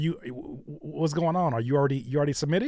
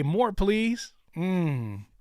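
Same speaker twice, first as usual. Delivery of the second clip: mock craving; 3 semitones higher, much slower than usual. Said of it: "look at this and say".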